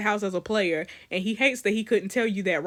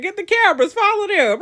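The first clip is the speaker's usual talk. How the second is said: loud, high shouted command; rally the camera crew in a hurry; urgent producer's order; 9 semitones higher, 8 dB louder than usual. Acted.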